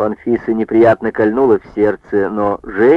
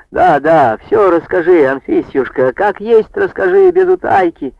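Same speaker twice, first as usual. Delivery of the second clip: high, begging voice rising; pleading; 8 semitones higher than usual. A narrator's reading. Agrafena pleading with chairwoman for news, high begging voice. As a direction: beg her to hold nothing back. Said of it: "взмолилась Аграфена".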